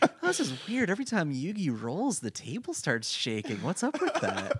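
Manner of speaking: high, puzzled, laughing; puzzled player voice. Pretend. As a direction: play a baffled gamer. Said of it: "puzzled player quote".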